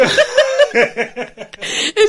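a high, loud burst of laughter. Real, not acted. Cracking up while retelling mom's call, high laugh.

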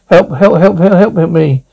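frantic cries for help; calling for help. Acted. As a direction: yell for help in desperation. Girls trapped, calling for help.

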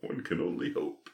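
dry whisper; whispered aside. Pretend. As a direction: whisper it coldly. Unvoiced aside.

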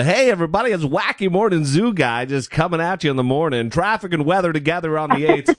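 hammed-up morning zoo DJ; pumped-up radio host hype. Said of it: "I could have turned up the".

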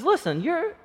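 a teacher confronting a fellow teacher; in his face. Retold or imitated. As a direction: get right in his face and push him. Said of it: "kinda gets in his face".

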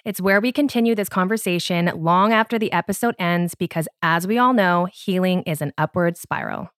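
scripted host announcement; podcast promo read. Real, not acted. Host interrupting the episode to invite listeners, promo read.

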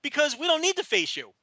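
high cocky wrestler promo; wrestling promo. Retold or imitated. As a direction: taunt the challengers smugly. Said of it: "that's what they should have said".

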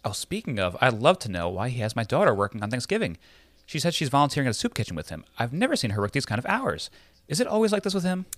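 high, breathy society mother; sexy Lily voice. Acted. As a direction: play Lily as sultry as you can. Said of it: "try and feel as sexy as possible".

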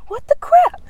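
rising retold freak-out ending in a high loud yelp; replaying the shock, building to a high loud yelp; hammed-up panic, rising to a yelp; mock panic. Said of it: "but I was like".

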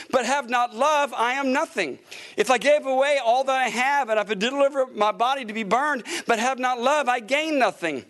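measured, steady reading of scripture. Acted. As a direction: read the verses out like a preacher. Reads scripture aloud from pulpit.

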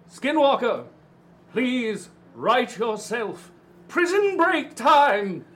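slow, loud, commanding call; booming oration. Acted. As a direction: command her like a herald. Using oration on Skinwalker.

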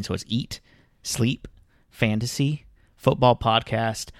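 Eat, Sleep, Fantasy with a pause after each; pauses between words. Shown as a demonstration. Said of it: "I gotta pause. There's little periods in between".

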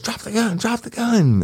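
high, urgent police command; shouted command. Retold or imitated. Cop retelling yelling at the woman to drop her gun. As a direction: bark it at the armed woman. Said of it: "and I said".

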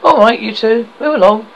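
loud, high policeman's command; stern order. Acted. Policeman ordering the quarrelling pair away, loud. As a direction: break it up, you two.

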